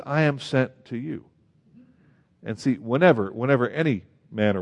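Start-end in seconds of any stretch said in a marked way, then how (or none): 0.1-1.2 I lifted, slow and soft; preacher pointing up the I; stress on I. Shown as a demonstration. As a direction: lean on I, then let the line settle. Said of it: "And yet he says".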